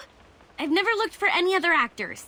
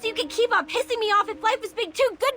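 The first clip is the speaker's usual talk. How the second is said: angry threat; 4 semitones higher than usual. Acted. Angry confrontation over an insult.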